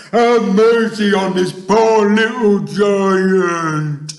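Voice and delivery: high, loud, wailing plea; terrified screaming. A narrator's reading. Giant begging Jack and fearing beanstalk, screaming. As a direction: shriek and beg in panic. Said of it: "screamed the flesh lump eater".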